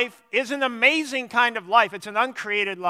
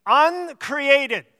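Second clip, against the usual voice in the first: UNCREATED punched higher and set apart by pauses; emphasized word; 4 semitones higher than usual. Shown as a demonstration. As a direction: hit "uncreated" firmly as the key word. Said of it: "I want to emphasize that word".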